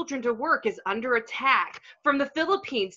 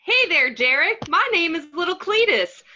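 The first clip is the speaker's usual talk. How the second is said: put-on little kid voice. Mugatu as Little Cletus pitching child labor to Derek, childish. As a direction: play a chirpy little kid. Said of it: "dressed like a little girl".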